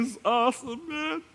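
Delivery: high, mildly gushing newcomer; a lightly voiced thrilled visitor; excited newcomer. Visitor telling the pastor, mildly gushing. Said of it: "they come to me crying".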